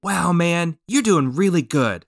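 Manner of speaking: mildly voiced supportive buddy; affirmative encouragement. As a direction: cheer on a nervous beginner gently. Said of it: "Wow, they were affirmative".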